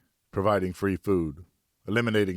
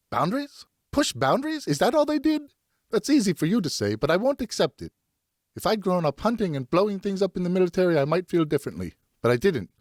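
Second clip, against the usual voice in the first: much higher and louder, near tears in tone; a frightened mother protesting; distraught wife; 12 semitones higher, 4 dB louder than usual. Acted. Wife rejecting her husband's excuse, much higher, upset.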